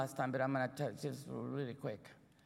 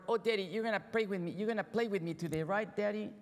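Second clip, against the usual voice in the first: a lightly voiced eager young son, pitched a bit higher; eager little boy; 5 semitones higher than usual. Little boy begging his busy father to play, lightly voiced. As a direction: plead with daddy like a hopeful kid.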